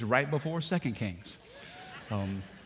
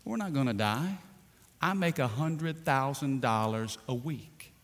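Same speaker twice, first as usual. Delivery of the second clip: calm and unbothered; 5 dB quieter than usual. Retold or imitated. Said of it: "said real calmly".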